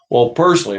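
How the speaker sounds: Well, personally, pressed with self-important weight; mock opinionated emphasis. Preacher mimics opinionated people, mock emphatic. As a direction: mimic a smug know-all. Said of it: "hear people say that".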